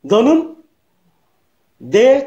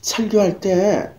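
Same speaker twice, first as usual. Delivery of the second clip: sweet pleading wife. Retold or imitated. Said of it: "그렇게 말하면서".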